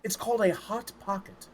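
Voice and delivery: hushed, rushed eager courtier; eager breathless servant. Acted. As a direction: gush about the invention softly. GM voices eager grandee.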